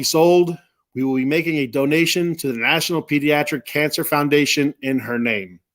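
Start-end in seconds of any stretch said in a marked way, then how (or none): 4.8-5.6 choked up. Real, not acted. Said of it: "'cause I'm getting choked up".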